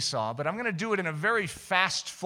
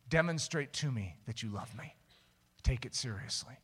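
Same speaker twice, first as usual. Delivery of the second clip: God; 4 semitones lower, 6 dB quieter than usual. Retold or imitated. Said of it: "I felt like God was saying".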